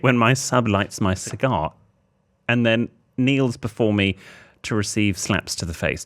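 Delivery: deliberate reading, pausing between phrases; letter read aloud. Acted. Host reads the writer's question to the co-host, deliberate letter-reading voice.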